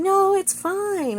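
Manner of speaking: high, drawn-out protest; mock freak-out. She stops him changing the sheets, mock panicked insistence. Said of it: "freaks out for a minute".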